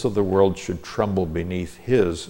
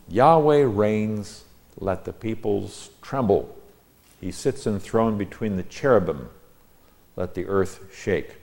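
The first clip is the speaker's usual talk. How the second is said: slow, spaced-out verse reading; scripture reading. Real, not acted. Teacher reads out his translation of the psalm, formal scripture reading. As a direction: declaim each line, pausing between them.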